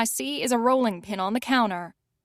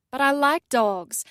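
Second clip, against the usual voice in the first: pouting; 4 semitones higher than usual. Acted. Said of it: "she pouts".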